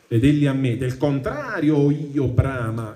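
slow, measured reading of Dante's verse; poem recitation. Acted. Teacher reading the Inferno to the class, measured recitation. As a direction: recite the tercets with weight.

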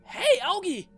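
high, loud excited calling out. Acted. Dog calls out to Augi, excited and loud. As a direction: shout the find to your partner.

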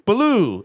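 "Baloo" with stress on "loo"; long "ooh" ending. Shown as a demonstration. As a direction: make "Baloo" rhyme with blue. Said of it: "It's like blue".

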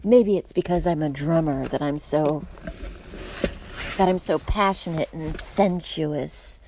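hushed, half-whispered sensuous boast; imitating the match's breathy brag; mock passionate drummer. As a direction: ham up his smoldering self-image. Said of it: "then he's like".

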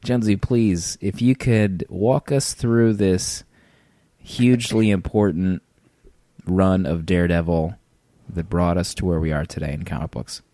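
mock-reverent sarcastic request. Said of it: "that was laced with sarcasm".

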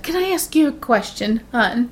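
a hint of a nervous old woman in a hot tub; shaky old lady. Narrator mimics the old lady asking a question in a mild shaky voice. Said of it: "she had a really shaky voice".

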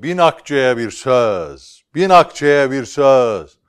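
slow, loud market cry; calling out. Acted. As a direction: call it out to the crowd. Merchant calling out to crowd.

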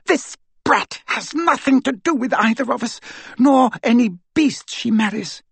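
high, proud and scornful; haughty witch voice. Acted. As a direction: sneer it from above. Bellatrix disowns her niece.

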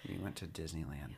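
hushed secret whisper. Acted. Secretive reveal.

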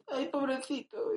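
high, slow, soft Galician lilt; Galician accent. Acted. Pitying someone, imitated Galician accent. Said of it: "El gallego mola".

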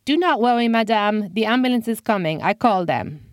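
put-on French accent. Frenchman reassuring the old man, French accent. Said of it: "The Frenchman added".

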